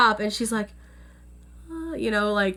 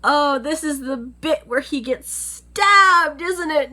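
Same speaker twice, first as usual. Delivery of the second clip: dreading whine; 4 semitones higher, slower than usual. Retold or imitated. Dreading the stabbing scene.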